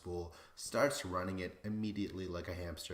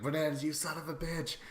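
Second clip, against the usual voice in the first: higher, half-shouted fake scolding; mock outrage; 7 semitones higher than usual. Scolding Bananas to defend Derek, hammed-up shouting. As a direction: yell at the screen in mock anger. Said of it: "I'm like".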